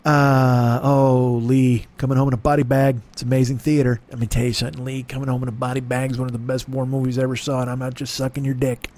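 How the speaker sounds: low, smooth bad actor impression; badly imitated low movie-star voice; terrible Christian Slater. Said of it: "it's a terrible Christian Slater".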